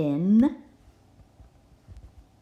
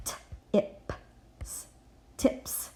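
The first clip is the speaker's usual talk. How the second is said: whisper; 6 dB quieter than usual. Shown as a demonstration. Sounding out a word.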